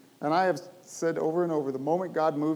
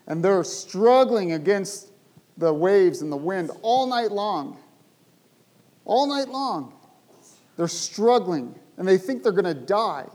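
dramatic slow emphasis; 3 semitones higher, 6 dB louder than usual. Acted. Dramatizes disciples' all-night struggle.

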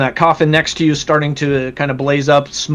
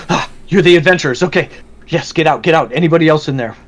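lightly voiced hurried guard, higher and louder; a touch of urgency, raised voice; 4 semitones higher, 4 dB louder, faster than usual. Guards hurrying adventurers out, mildly urgent. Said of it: "the guards do go".

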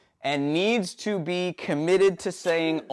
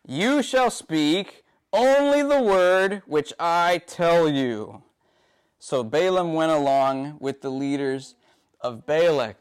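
measured, slightly raised reading of Bible text; scripture reading. Acted. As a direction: read the passage aloud to the congregation, deliberately. Preacher reads the Balaam passage.

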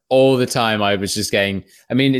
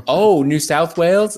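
slow, higher questioning; mock bright asker; 5 semitones higher than usual. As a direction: ask it brightly and slowly.

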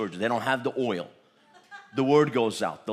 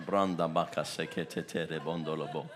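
tongues; 5 semitones lower, 4 dB quieter than usual. Real, not acted. Preacher speaking in tongues.

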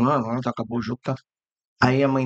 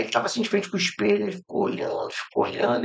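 whispered build-up; 3 semitones higher, 5 dB quieter than usual. Real, not acted. Storyteller hushes before the punchline.

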